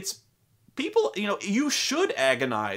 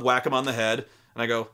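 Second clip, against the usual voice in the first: usual speaking voice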